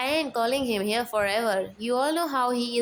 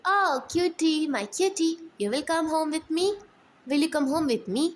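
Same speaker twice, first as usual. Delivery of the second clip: cooing to a cat; 5 semitones higher than usual. Acted.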